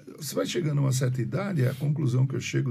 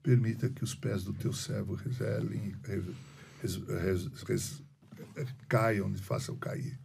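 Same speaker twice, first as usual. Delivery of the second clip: low, soft recited prayer; 4 semitones lower, 5 dB quieter than usual. Retold or imitated. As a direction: pray quietly, halting towards the end. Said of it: "Minha oração ... sempre começa assim". (oração baixa e recolhida)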